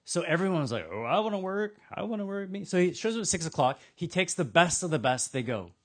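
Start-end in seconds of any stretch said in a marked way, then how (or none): 0.9-2.7 higher, keen volunteering voice; eager volunteer. Acted. Workers clamour for the landowner's job, eager. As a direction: jump in to offer yourself, pitched up.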